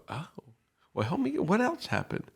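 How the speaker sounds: high, soft, gently curious invitation; curious caring listener. Shown as a demonstration. Counselor inviting a struggling friend to share, high gentle curiosity. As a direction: coax them to keep talking, lifted and soft. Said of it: "I'm just going".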